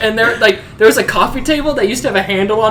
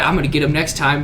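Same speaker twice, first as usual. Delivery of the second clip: mock mumble; 8 semitones lower, 7 dB quieter than usual. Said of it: "you'd be like".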